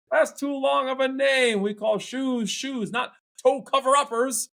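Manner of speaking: high, incredulous protest; can't believe that name. Acted. Crowd objects in the joke.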